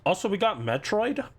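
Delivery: talking with a mouthful; words round a bite of jerky; mouth full. Real, not acted. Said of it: "my mouth is full".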